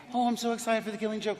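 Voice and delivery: fast, lightly mocked eager gush; excited kid. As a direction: rattle it off like an eager fan. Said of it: "kids will come up to me and say".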